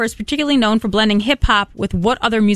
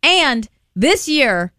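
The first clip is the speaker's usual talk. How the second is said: put-on old hag teasing a spooky secret; spooky witch voice. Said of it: "the spooky witch voice".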